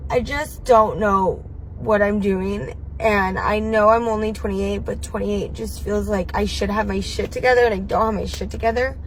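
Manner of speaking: quiet tearful confession; holding back tears, voice dropping. Real, not acted.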